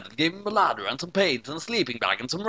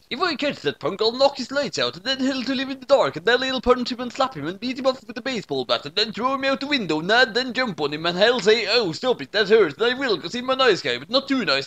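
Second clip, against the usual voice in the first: put-on raging drunk dad; 8 semitones higher than usual. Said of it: "spitting everywhere with rage".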